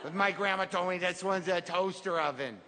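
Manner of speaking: lightly voiced kid narrator, subdued; child telling a sad story. Kid telling of the sad store, mildly mournful childlike storytelling. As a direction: recount it simply, like a child saddened by the story.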